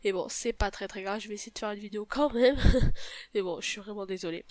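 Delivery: sick with a stuffy nose; blocked nose. Real, not acted. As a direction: talk through a blocked nose. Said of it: "j'ai le nez bouché".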